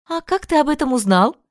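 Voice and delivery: lightly voiced curious mother. A narrator's reading. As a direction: ask brightly.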